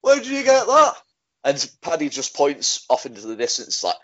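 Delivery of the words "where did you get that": high squeaky voice. Retold or imitated. Voicing Max asking.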